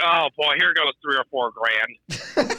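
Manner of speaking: slow, laughing through it; picture the bar tab, half-laughing; laughing dread. Retold or imitated. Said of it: "I was like".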